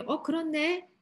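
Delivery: mock sudden recognition; dawning realization. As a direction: act out a crowd coming round. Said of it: "이렇게 깨달았으면 얼마나 좋아요".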